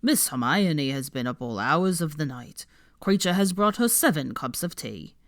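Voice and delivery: slowish elf voice telling on her; earnest elf reporting; tattling house-elf. Acted. Creature telling Harry on Hermione, earnest elf voice.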